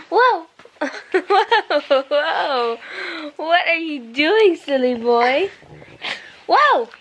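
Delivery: playful whoa. Real, not acted. Mom reacts to her son's antics with playful whoas. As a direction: play up the surprise for the little one. Toddler plays, mother reacts.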